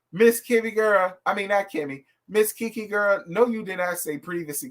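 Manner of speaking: ordinary talk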